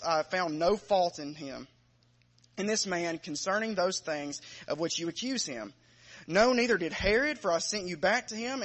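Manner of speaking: projected Bible reading with weight on key words; scripture reading. Acted. Preacher reading John eighteen to the congregation, scripture reading. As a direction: read the Gospel aloud, firm and measured. Reads the Gospel passage aloud.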